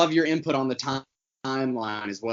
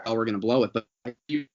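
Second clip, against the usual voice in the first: breaking up over a bad connection; words dropping out mid-sentence; glitching audio; 3 semitones lower, faster than usual. Real, not acted. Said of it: "You're cutting out a little bit".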